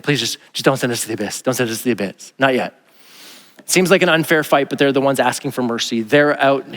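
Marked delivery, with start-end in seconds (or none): 0.0-2.7 quiet, fast, begging demons; panicked pleading. Retold or imitated. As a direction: beg in a small frightened voice. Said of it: "they're the ones panicking, like".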